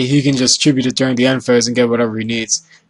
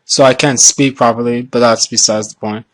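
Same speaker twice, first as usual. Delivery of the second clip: numb mouth. Real, not acted. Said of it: "My entire right side of my mouth is numb".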